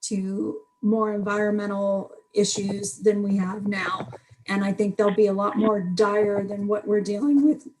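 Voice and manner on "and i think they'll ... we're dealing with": losing voice. Real, not acted. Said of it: "I'm losing my voice now".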